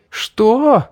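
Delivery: sharp angry high cry; growled shout. Acted. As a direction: snap it out in shock and rage. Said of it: "зарычала Мэри".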